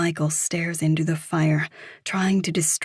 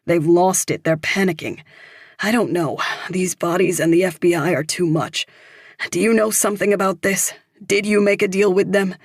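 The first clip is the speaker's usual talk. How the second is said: panicked; 2 semitones higher, 5 dB louder, faster than usual. Acted. Michael panicking about the killers.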